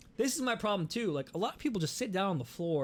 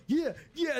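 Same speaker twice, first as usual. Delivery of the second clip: higher, louder hyped yeah yeah like partying dudes; mock party bros; 10 semitones higher, 4 dB louder than usual. Imitating two partying dudes at the stage, hyped and louder. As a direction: cheer like a drunk festivalgoer, a bit higher.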